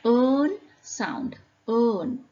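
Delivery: "earn" stretched into one long vowel before N; earn sound demo. Shown as a demonstration. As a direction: model "earn" clearly and firmly. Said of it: "when we pronounce the words".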